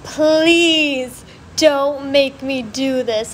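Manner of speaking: slow, drawn-out mock begging; begging the teacher not to make her do it; pleading. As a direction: stretch out the plea like a whiny kid. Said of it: "And I was like".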